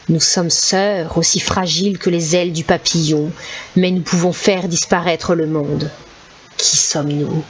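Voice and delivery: strange metallic voice, slow; a touch of an eerie metallic riddle. Acted. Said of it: "d'une étrange voix métallique". (voix métallique étrange, lente)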